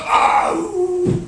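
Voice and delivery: high, loud crowd oh; high shouted oh. Shown as a demonstration. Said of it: "could this side of the crowd go".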